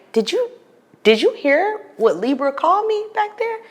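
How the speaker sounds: high, urgent disbelief; indignant. Retold or imitated. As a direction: demand an answer, outraged. Asking friend in car, indignant.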